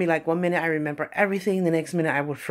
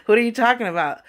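laughing scoff; 5 semitones higher, faster than usual. Real, not acted. Scoffing at beauty college doubters.

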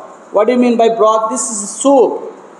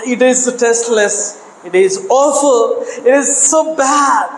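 put-on complaining children; 3 semitones higher than usual. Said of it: "they exclaimed".

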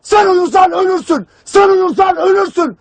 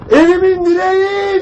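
imitated mother's wail; 2 semitones higher than usual. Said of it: "diye ağlıyor".

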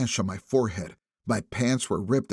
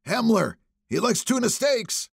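put-on drunk rant; 11 semitones higher than usual. A narrator's reading. Drunk man shouting.

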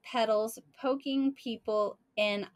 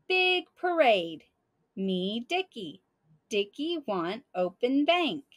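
panicked blurt; 3 dB louder than usual. Retold or imitated. Rollo, cover blown in the bank, blurts in total panic. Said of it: "Total panic now".

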